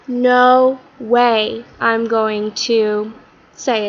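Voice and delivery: "no way" stretched out slow and emphatic; slow, insistent refusal. Acted. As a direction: draw out "no way" in firm refusal. Todd flatly refuses to repeat it.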